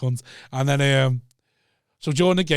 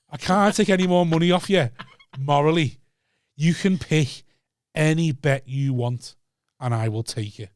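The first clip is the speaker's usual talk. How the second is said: mock solemn; slower than usual. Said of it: "Oh, I took more".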